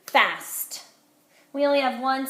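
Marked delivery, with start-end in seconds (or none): 0.1-0.8 Fast said as one firm beat; pounding syllables. Shown as a demonstration. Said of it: "Let's pound it".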